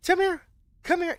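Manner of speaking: high sing-song call to a dog. Real, not acted. Calling the dog over.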